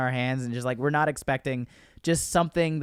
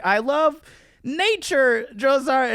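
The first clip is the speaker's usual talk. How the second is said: much higher, louder mock-innocent voice; sweet-talking the drill sergeant in a high, loud voice; innocent private; 11 semitones higher, 5 dB louder, slower than usual. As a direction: play the wide-eyed recruit, piping up.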